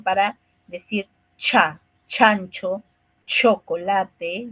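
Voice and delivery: "chocolate" drawn out slowly; slow demo sounds. Shown as a demonstration. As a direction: spell out "cha" and "chancho" carefully. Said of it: "Por ejemplo".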